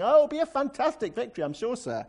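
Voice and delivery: quick, high, gushing fake enthusiasm; very sarcastic. Shown as a demonstration. Prophet assuring the king of victory, very sarcastic. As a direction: flatter him with blatant insincerity, then drop away. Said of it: "must have said it very sarcastically".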